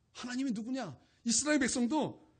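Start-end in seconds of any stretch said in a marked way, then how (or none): 0.1-1.0 higher, sneering repeat; mock Pharaoh scoffing at Moses; Pharaoh's scoff. Pharaoh mocking Moses, higher scoff. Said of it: "바로도 모세의 자존심을 건드리는 거예요".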